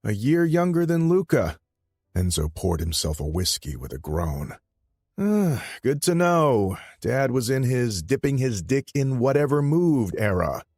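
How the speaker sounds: high, loud cocky younger brother; Enzo's voice. Acted. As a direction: pitch him up high and loud, brash. Enzo mocking over whiskey.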